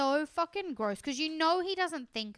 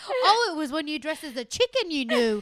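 laughing while talking; 6 dB louder than usual. Real, not acted.

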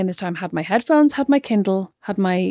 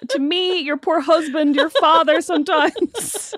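laughing; 5 semitones higher, slower than usual. Real, not acted. Laughing while teasing.

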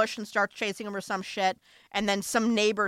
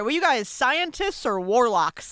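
slow, loud disbelief; incredulous; 3 semitones higher, 5 dB louder, slower than usual. Retold or imitated. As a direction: ask it like it's absurd. Incredulous retort to Spidey.

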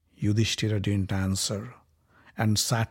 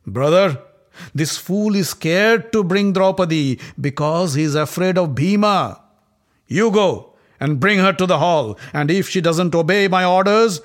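higher, louder arrogant commands; scornful prince; 5 semitones higher, 6 dB louder than usual. Acted. Prince tells his brother to drag her in, scornful. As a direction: sneer at the coward and give the order.

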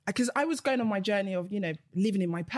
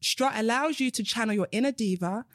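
reading aloud. Acted. Reads out another client's comment.

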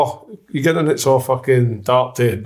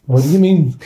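mock Welsh accent. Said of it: "And his Welsh accent".

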